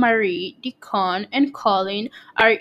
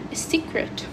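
breathy hush on the word secret; a gardener softly agreeing to keep the garden hidden; whispered secret; 5 semitones higher, 10 dB quieter than usual. Acted.

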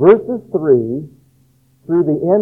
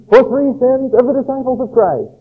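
higher, ringing prophetic proclamation; modern prophet proclaiming; 4 semitones higher than usual. Pretend. A prophet today warning the churches, higher and ringing. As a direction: thunder it out like an old prophet. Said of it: "And then".

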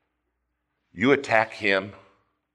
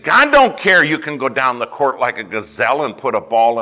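retold tirade; 3 semitones higher, 6 dB louder than usual. Pastor's tirade acted out.

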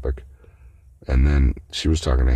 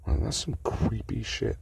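higher, hushed whisper; whispered aside; 7 semitones higher, 7 dB quieter than usual. Real, not acted. Judging her remark, a creeped-out whisper. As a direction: whisper it in disgust. Disgusted aside about the meeting.

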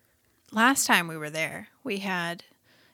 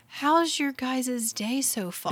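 imitating Ariel; 4 semitones higher, slower than usual. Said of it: "she said".

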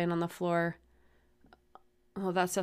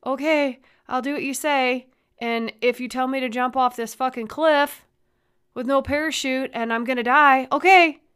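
mock compliant sheep; 6 semitones higher, 9 dB louder than usual. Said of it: "Everybody's just like".

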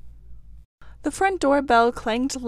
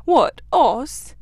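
surprised rabbit; 2 semitones higher, 7 dB louder than usual. Retold or imitated. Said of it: "he merely said".

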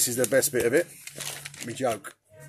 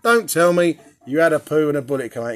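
louder knowing mother voice; exasperated mum imitation; 3 semitones higher, 7 dB louder than usual. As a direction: cut in as a mum who has heard it all. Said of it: "she went".

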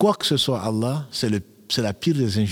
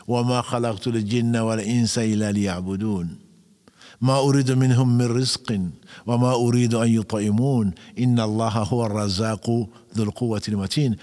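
measured Arabic verse recitation; Quran recitation. Acted. Preacher quoting scripture to listeners, recitation.

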